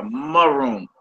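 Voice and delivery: maroon with a 'muh' first syllable; short slurred vowel. Shown as a demonstration. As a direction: demonstrate maroon as muh-ROON. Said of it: "uh, uh".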